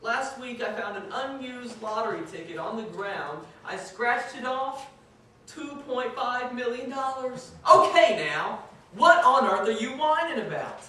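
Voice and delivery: high and loud mock-grief wail, building; hammed-up wailing. The lucky man wails to his friend, hammed-up and loud. Sobbing man keeps escalating.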